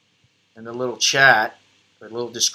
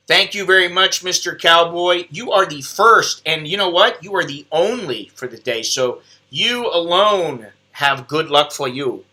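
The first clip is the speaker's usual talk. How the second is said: imitated Thai English; 3 semitones higher than usual. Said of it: "I sound like, you know, I'm trying to do my best or my worst Bruce Lee impression".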